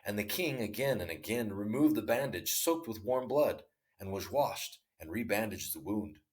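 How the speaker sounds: measured storytelling read; story narration. A narrator's reading. Narrator reading a Tolstoy tale to listeners, measured storytelling. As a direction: read the tale aloud, unhurried.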